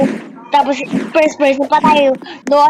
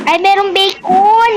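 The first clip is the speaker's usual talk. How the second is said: excited; 6 semitones higher, slower than usual. Real, not acted. Spots a friend.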